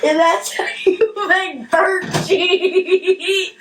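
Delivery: slow high laughing announcer; cooking show host. Pretend. Mock cooking show sign-off.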